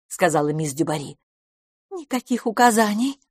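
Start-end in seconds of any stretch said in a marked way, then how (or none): 1.9-3.2 hasty interruption. A narrator's reading. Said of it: "поспешно перебила".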